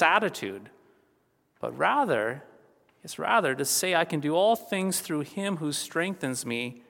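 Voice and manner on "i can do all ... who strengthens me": quiet, steady and assured; calm assurance. Shown as a demonstration. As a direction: say it softly with quiet confidence. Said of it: "is a statement of assurance".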